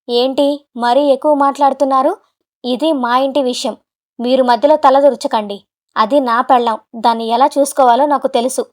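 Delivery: mildly heated, threatening retort; shaking with rage. Acted. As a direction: square up to the father-in-law. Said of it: "కోపంతో ఊగిపోతూ". (కోపంగా బెదిరిస్తూ)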